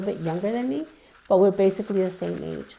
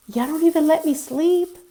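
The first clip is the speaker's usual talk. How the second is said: angry sister; 8 semitones higher, 5 dB louder than usual. Retold or imitated. Angry sister woken, slamming doors.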